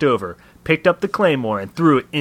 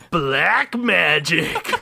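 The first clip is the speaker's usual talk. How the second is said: slow, laughing punchline; 4 semitones higher, much slower than usual. Real, not acted. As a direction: laugh the words out.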